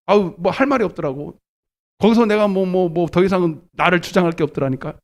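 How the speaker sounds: ordinary delivery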